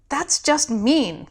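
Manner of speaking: slow, put-out inner voice; drawn-out disapproval; slowly indignant; indignant thought. Acted. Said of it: "thought Alex".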